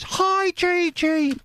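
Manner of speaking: very high, slow squeaky voice; high-pitched viewer voice. Retold or imitated. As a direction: read her message in a silly squeak. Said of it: "all the voices are me".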